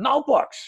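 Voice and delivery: "notebooks" said loud and very high. Acting like an American overseas, repeating 'notebooks' louder. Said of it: "I'm going to say the same thing again, only louder".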